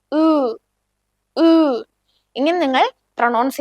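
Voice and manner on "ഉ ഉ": "ഉ" said as O and E merged into one rounded sound; blended O-E vowel. Shown as a demonstration. Teacher showing learners the O-umlaut trick, "ഉ" as blended O-E. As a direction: hold "ഉ" as a single blend of O and E. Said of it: "ഒരുമിച്ച് pronounce ചെയ്യാം".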